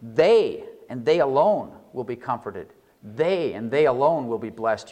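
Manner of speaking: "They" punched, then "and they alone" set apart; emphatic reading. Shown as a demonstration. Preacher demonstrating the emphatic "they", stressing "They". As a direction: stress "They" and pause before "will". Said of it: "you could say".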